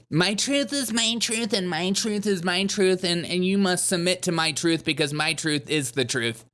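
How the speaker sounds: mock a self-righteous speaker. Mocking the woman's creed.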